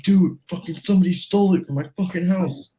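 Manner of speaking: high-pitched panicked buddy imitation; retold freak-out. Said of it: "So he's freaking out".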